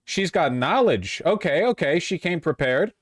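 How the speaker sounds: thrilled, voice up; excited. Real, not acted.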